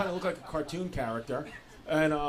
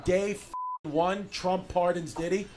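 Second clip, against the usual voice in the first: louder and louder into a shouted punchline; building shout; 3 semitones higher, 7 dB louder than usual. Acted. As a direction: build it up until you're yelling.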